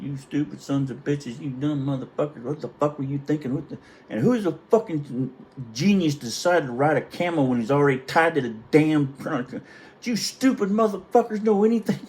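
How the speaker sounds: high, loud yelling gunny rant; furious tirade. Retold or imitated. Gunny screaming at his three Marines, furious and high. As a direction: blast them like a drill sergeant.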